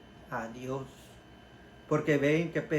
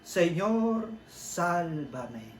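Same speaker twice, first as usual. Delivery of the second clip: crying out for help; 3 semitones higher, much slower than usual. Shown as a demonstration. Preacher cries out Pedro's plea to the congregation. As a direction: call out to the Lord like a drowning man. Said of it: "oración completa".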